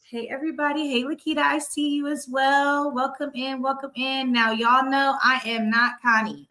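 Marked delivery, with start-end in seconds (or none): 5.2-6.5 deliberate stress on "I am not Connie"; emphatic disclaimer. Real, not acted. Host telling viewers she is not Connie, emphatic on "not". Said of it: "I'ma just put the emphasis on that".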